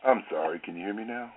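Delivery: a first small lift in volume on the apology; speaking up slightly. Real, not acted. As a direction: speak up a touch, then ease off. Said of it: "can you speak up a little bit".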